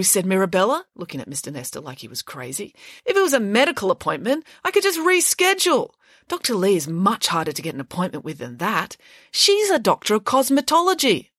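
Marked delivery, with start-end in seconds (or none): 3.0-11.3 put-on high, haughty girl's voice; spoiled schoolgirl. Mirabella scoffs at Mister Nesta, high and haughty. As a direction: talk down to the teacher.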